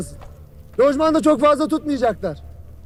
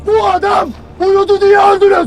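furious shout; 3 semitones higher, 5 dB louder than usual. Real, not acted. Commander blaming the recruits' deaths on the sleeper, furious shout. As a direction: blast the blame at them.

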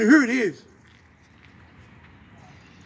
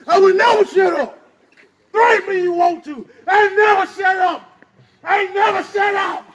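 fired up; 3 semitones higher than usual. Real, not acted. The speaker vowing to the crowd he won't be silenced, heated shout. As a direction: pound the never home, unstoppable. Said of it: "Yeah, take a deep breath, James".

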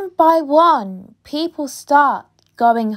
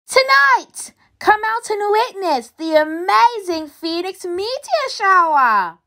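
high, showy announcer call; microphone announcement; 5 semitones higher than usual. Acted. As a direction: announce it grandly over the shop mic. Announcing over supermarket microphone.

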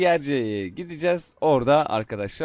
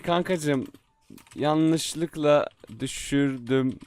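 pleading friend; much slower than usual. Pretend. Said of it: "Sonra diyeyim ki".

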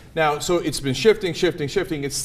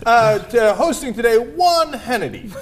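mock host; 4 semitones higher, 3 dB louder than usual. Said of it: "back on the Sean Hannity show".

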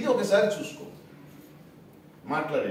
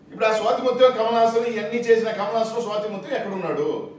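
raised demand; 5 semitones higher, 5 dB louder than usual. Real, not acted. Press meet, demanding answers.

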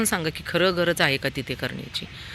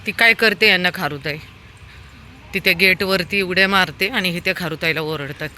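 ordinary talk, nothing marked

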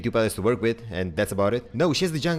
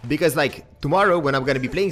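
higher-pitched, exasperated griping; fuming; 5 semitones higher than usual. Real, not acted. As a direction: complain in a raised pitch, worked up. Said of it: "I'm actually fuming".

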